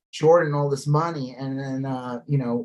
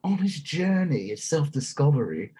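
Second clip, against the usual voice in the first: put-on posh British accent; 4 semitones higher than usual. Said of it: "the most haughty-taughty British accents".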